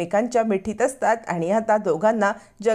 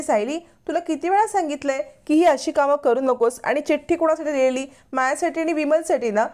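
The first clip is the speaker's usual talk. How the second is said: raised, higher scolding voice at the daughter-in-law; angry scolding; 8 semitones higher than usual. A narrator's reading. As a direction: scold her sharply, voice pitched up. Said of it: "कल्पना चिडते आणि म्हणते". (चिडून, उंच आवाजात रागावणे)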